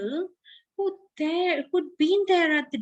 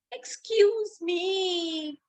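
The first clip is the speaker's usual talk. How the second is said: puffed; 4 semitones higher, much slower than usual. Acted. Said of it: "puffed a cricket".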